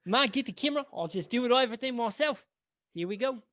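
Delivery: high, loud mock Kiwi accent, self-taught filmmaker taking over; bad New Zealand accent. Director jumping into his own lead role, in a mock New Zealand accent. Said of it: "My New Zealand accent is absolute trash".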